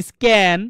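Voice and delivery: স্ক্যান as "iskan", no puff after k; correct unaspirated k. Shown as a demonstration. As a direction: say স্ক্যান with a hard plain k. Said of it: "কি হবে?".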